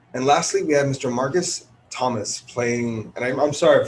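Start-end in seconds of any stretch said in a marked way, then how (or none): 0.6-3.1 tired, slightly slurred speech; sleepy early-morning slur; slurring words. Real, not acted. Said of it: "I keep slurring the words".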